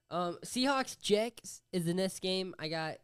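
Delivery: "Jets is the next game" said slowly and stumbling; fumbled read. Real, not acted. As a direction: trip over "Seahawks, Jets" and drag the words. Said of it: "I said that so wrong".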